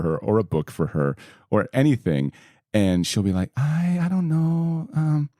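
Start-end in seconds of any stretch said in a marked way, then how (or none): 3.6-5.3 imitating mom's thick Puerto Rican accent, higher; high, hesitant Puerto Rican mom. Son imitating his mom asking about cussing, thick Puerto Rican accent. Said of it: "she's got a real thick accent".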